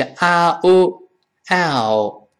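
slow glide from 啊 into 哦; diphthong demo. Shown as a demonstration. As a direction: join 啊 and 哦 into one sound, slowly. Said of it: "先发啊，".

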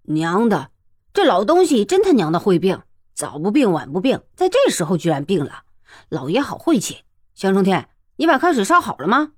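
grumbling rage, fast at the end; a bully cursing his bad luck; furious. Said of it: "乔保长一听大怒". (大怒地骂骂咧咧)

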